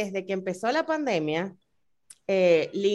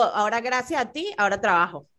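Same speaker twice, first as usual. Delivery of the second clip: resentful reading. Shown as a demonstration. Friend demonstrating the same words turned into a reproach. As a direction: say it as a complaint, blaming the listener. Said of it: "la connotación es importantísima".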